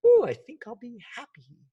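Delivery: high, loud sing-song mock cheer; mock cheerful. Facing a shark, mocking a cheerful reaction. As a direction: chirp it like a silly optimist. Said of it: "I'm not gonna turn around and go".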